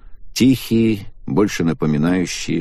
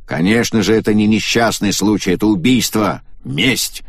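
serious; 3 semitones higher, 3 dB louder than usual. Acted. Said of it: "Симада серьёзно продолжил".

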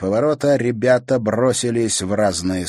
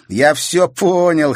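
chuckling; 10 semitones higher, 9 dB louder, slower than usual. A narrator's reading. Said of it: "хохотнул Игорь".

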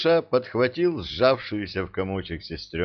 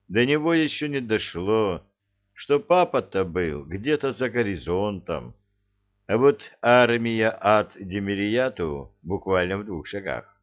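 usual speaking voice

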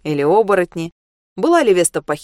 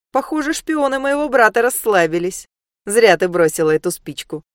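taunting demon prince; 3 semitones higher than usual. Acted.

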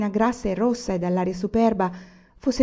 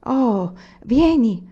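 put-on high, slow, small child's voice; little girl's voice; 5 semitones higher, 6 dB louder, much slower than usual. A narrator's reading. The little girl invites Anania in, slow and high. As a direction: call him in like a little girl. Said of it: "rispose la vocina".

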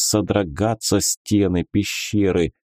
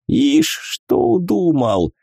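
squinting scoff; 11 semitones higher, slower than usual. A narrator's reading. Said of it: "прищурился волшебник".

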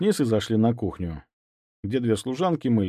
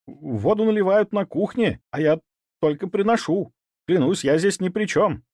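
higher pitiful pleading; plaintive; 9 semitones higher than usual. Acted. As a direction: swear it with a pitiful edge. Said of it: "жалобно пробормотал он". (жалобно)

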